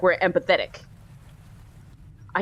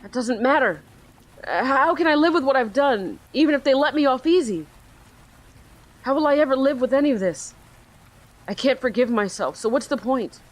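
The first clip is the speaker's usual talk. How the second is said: put-on slightly higher, hopeless young voice; despairing teen boy; 5 semitones higher than usual. Teen on the ledge telling the detective, lightly raised. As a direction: let it sound like no way out.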